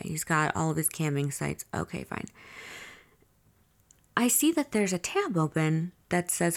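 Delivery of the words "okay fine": breathy whispered okay, fine; whispered inner shrug; resigned whisper. Retold or imitated. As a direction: mutter it to yourself, giving up. Silently reading his open tabs.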